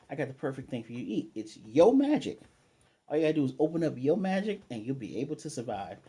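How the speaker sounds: lightly voiced cartoon shark selling a snack, livelier pitch; commercial shark pitch. Shark pitching magic snack to a hungry boy, lightly voiced salesman. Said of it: "a shark comes up and he says".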